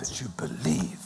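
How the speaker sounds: breathy unvoiced whisper of the phrase. Real, not acted. Preacher whispering the point to the congregation. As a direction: drop to a whisper for effect.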